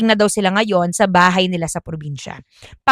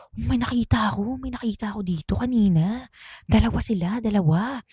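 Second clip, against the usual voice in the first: hushed secret telling; 7 dB quieter than usual. Retold or imitated. Cousin confiding what he saw in the grass, hushed. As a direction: share it like a secret.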